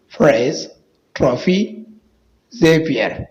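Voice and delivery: isolated words with PH said f. Shown as a demonstration. Teacher drilling PH words for viewers, f sound. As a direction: say each word separately, PH as in "फा". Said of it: "फा का आवाज़ देता है".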